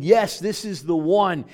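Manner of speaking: loud, slow proclamation; heavenly declaration. Acted. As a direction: announce it like heaven speaking. Holy Spirit's declaration.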